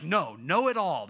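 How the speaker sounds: imitated toddler refusal, loud; emphatic kid-style no; Aiden. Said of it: "That was, like, Aiden's emphatic".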